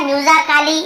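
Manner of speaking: "म्यूजिकली" with a full AA, myu-za-kaa-lee; wrong pronunciation. Shown as a demonstration. Teacher shows students the misreading, "म्यूजिकली" said myu-za-kaa-lee. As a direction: voice the silent A in "म्यूजिकली" as AA. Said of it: "ऐसे ए या आ या नहीं पढ़ रहे हैं".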